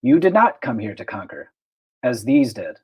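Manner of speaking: lightly voiced robotic probe. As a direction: speak like an alien machine probe. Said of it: "in its robotic voice".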